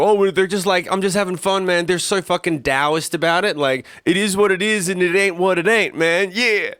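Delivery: lazy, chill rocker guy; laid-back stoner dude. Retold or imitated. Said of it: "and go".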